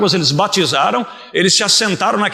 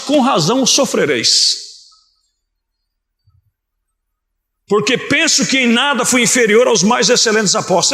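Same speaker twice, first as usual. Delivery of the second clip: emphatic, declaimed Bible reading; measured pulpit reading with stressed phrases; Scripture reading; 3 semitones higher than usual. Real, not acted. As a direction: read the verse out to the whole church. Preacher reads Scripture aloud.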